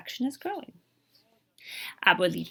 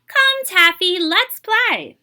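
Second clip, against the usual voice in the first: higher, louder call to a cat; 8 semitones higher, 8 dB louder, much slower than usual. A narrator's reading. Child on the carpet calls Taffy the cat, playful call. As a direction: call the cat over to play.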